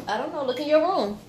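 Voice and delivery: yelling across the room. Real, not acted. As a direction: call out to the next room. Answering kid in other room.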